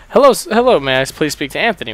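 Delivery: imitating a caller's thick Middle Eastern accent, high and loud on hello; a hammed-up Middle Eastern accent opening a scam call; mock Middle Eastern accent. Scammer greeting Anthony on the phone, mock Middle Eastern accent. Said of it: "he has a very thick Middle Eastern".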